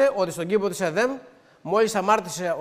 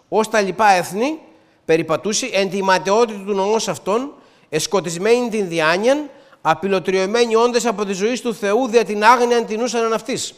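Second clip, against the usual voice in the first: scripture reading. Real, not acted. Reads Ephesians aloud.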